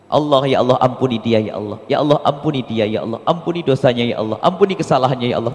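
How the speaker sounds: soft pleading prayer for forgiveness; quiet prayer. Acted. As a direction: pray it humbly under the breath. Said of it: "harus banyak istighfar". (doa lirih memohon ampun)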